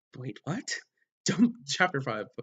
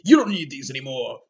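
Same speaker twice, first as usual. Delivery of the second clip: mock sultry line; 6 dB louder than usual. Mock seduction line in sex scene.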